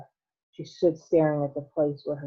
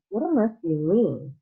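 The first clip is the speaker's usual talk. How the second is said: sharp; 4 semitones higher, 4 dB louder than usual. Acted. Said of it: "said Mister T V sharply".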